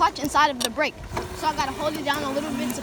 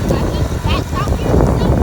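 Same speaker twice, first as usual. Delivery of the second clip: excited shout; 5 semitones higher, 9 dB louder than usual. Real, not acted. Startled by bats while riding.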